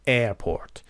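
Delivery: AIR-port, first syllable of airport stressed; weight on air, light port. Shown as a demonstration. Teacher explains word stress, AIR stressed in airport. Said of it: "استرس قسمت اول".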